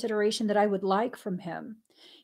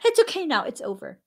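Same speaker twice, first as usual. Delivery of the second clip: put-on higher, amused take on a little boy's reassurance; imitating her son, laughing; 7 semitones higher than usual. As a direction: play the boy kindly soothing mom, higher. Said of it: "He said that to".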